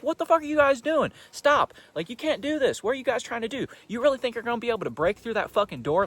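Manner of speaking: put-on high, loud shrieking yell at the boys; angry worker yell. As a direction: mimic a furious worker screaming high. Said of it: "She's like".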